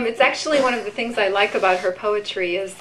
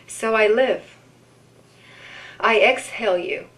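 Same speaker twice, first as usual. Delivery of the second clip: unhurried poetry reading with long pauses; poem reading. Acted. Reads a poem aloud.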